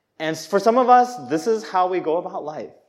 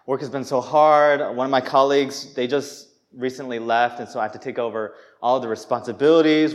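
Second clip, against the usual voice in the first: humble brag. Retold or imitated. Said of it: "I'll be like".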